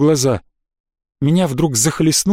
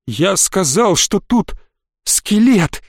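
climbing, halting, high at the end; voice breaking; 4 semitones higher, much slower than usual. A narrator's reading. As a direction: repeat it in pieces, near panic. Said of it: "срывающимся голосом повторил". (срывающимся голосом)

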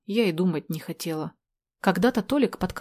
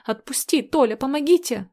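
high, loud desperate shout for help; desperate cry; 7 semitones higher, 4 dB louder than usual. Acted. Girl pinned by Tolya calls for help, desperate high shout. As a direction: scream for help with nothing left. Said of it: "закричала я в отчаянии".

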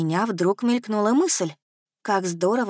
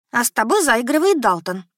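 blurted out; 5 semitones higher, 4 dB louder than usual. Acted. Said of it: "выпалила я".

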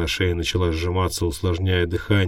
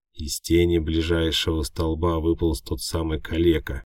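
ordinary delivery, nothing marked

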